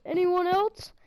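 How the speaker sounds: lightly voiced hero dare with a rising end; Thor's line. Retelling the hero's knockdown line to viewers, mild mock dare. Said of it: "knocks down the guy and says".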